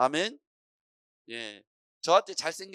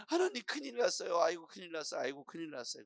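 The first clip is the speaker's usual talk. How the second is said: fretful believer's plea; 3 dB quieter than usual. Acted. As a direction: cry to God in mock alarm. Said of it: "그럴 때".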